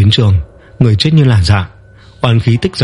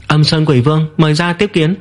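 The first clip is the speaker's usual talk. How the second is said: firm summons; 6 semitones higher than usual. Acted. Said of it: "không run không né".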